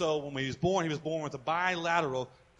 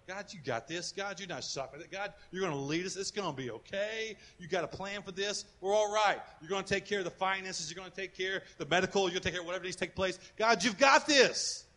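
quiet prayer; 3 dB quieter than usual. Retold or imitated. Quiet hospital-room prayer to God.

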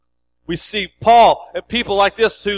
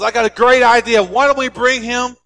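chicken voice, louder and higher with the idea; a hammed-up chicken pitching an idea; excited chicken; 5 semitones higher, 3 dB louder than usual. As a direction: pitch up, proud of the plan. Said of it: "The chicken goes".

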